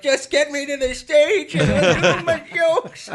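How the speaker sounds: high, slow, hammed-up; creaky joke-weary plea; weary old man. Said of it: "I'm like".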